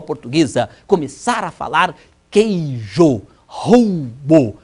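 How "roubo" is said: normal talking voice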